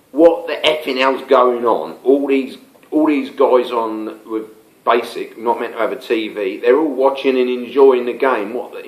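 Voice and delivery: mild mock yell of an angry officer; barking it out half-hearted, as the guard; retold shout. Senior officer yelling at her men, mild mock yell. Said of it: "march outside and shout at her men".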